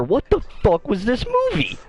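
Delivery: retold screaming. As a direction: yell it at the whole theater in disbelief. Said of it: "I'm literally screaming in the middle of the theater".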